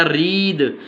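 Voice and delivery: "रीद" drawn out into a voiced द; final "द" sound. Shown as a demonstration. Teacher reads the next example word, final द sound. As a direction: end "रीद" on द, slowly. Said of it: "उसका द pronunciation होगा".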